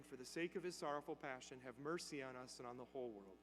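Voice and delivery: low, soft recited prayer; quiet praying. Retold or imitated. Priest prays beside the dying man, quiet praying. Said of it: "he quietly starts praying".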